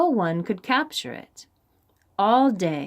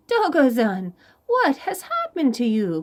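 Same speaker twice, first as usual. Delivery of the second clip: mild cry; 5 semitones higher, 3 dB louder than usual. Acted. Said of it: "cried Chameleon".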